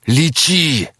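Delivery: hoarse rasped plea; сипло. A narrator's reading. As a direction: rasp it out, voice worn thin. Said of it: "просипел Таку". (сиплым голосом)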